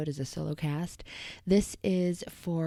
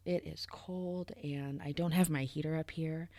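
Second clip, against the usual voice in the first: shaky whisper; 5 dB quieter than usual. Real, not acted. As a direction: whisper it through the cold. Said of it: "if my voice sounds a little shaky".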